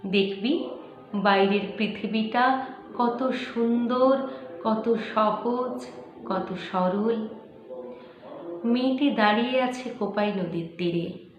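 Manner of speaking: slow, measured dramatic recitation with long pauses; expressive verse reading, unhurried; poetry recitation. Acted. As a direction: recite it like a story-poem, weighting each phrase. Recites a poem.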